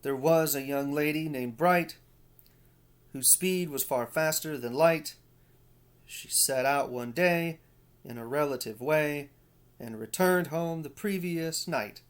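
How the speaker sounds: sing-song limerick read, lilting and rhythmic; playful recital of a limerick. Shown as a demonstration. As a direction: read it with a bouncing anapestic lilt. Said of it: "it sounds something like this".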